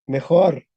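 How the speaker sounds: "Mejor" in two syllables, ending on r; final E dropped. Shown as a demonstration. Teacher corrects the student's answer, final E dropped. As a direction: say "Mejor" as me-khor, stressed on the end. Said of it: "Porque la E se pierde".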